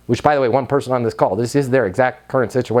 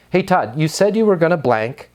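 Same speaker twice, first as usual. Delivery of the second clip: ordinary talk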